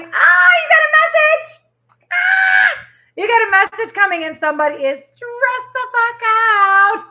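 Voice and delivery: high, loud excited exclamation; excited outburst. Real, not acted. Tarot reader excitedly telling viewers a message is coming. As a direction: burst out with the news of the message.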